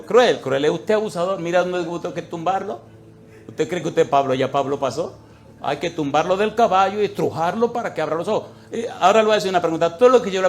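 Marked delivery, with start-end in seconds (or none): 0.0-8.5 loud rebuke. Retold or imitated. Preacher rebukes husband in hospital.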